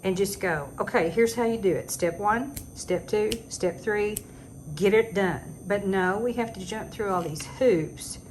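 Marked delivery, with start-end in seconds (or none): 0.8-5.4 mock teacher. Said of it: "needs to be a teacher and just go".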